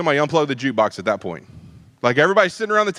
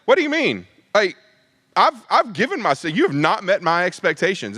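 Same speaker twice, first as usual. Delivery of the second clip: mild mock anger, a bit higher; angry Judas; 4 semitones higher than usual. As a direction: play Judas fed up and indignant, but keep it light. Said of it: "he just became flat out angry".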